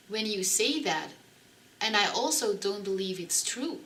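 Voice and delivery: soft, careful, polite reasoning. Retold or imitated. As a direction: ease into it gently so nothing sounds like an accusation. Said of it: "very politely and carefully started to explain".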